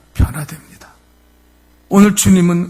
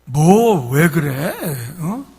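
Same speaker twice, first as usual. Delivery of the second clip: demanding; slower than usual. Retold or imitated. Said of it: "막 따지니까".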